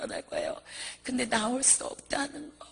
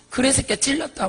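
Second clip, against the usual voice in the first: loud acted retort; mock angry demon comeback; fighting demon; 2 semitones higher, 6 dB louder than usual. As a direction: throw it back in a quarrel. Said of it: "그러면서 또 막 싸워요".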